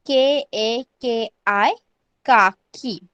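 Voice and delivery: spaced letters, then काकी as का-की; spelling out pronunciation. Shown as a demonstration. Teacher spells out the taught word.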